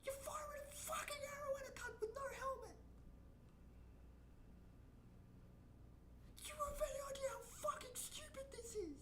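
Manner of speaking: incredulous voiceless whisper at the screen; exasperated whisper. Real, not acted. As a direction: whisper it, no voice at all. Whispered rant at the video.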